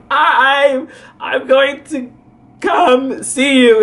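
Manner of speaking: high, dragged-out words; acted hesitant promise; retold reluctant offer. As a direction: draw each word out slowly and high.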